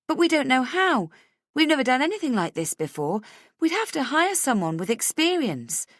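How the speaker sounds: barely hidden panic. A narrator's reading. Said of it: "keep the panic out of my voice".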